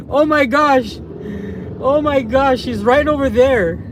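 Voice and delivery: high, excited exclamation; real gleeful surprise; amused disbelief. Real, not acted. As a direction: marvel at it, pitch up. Spots his missing wife.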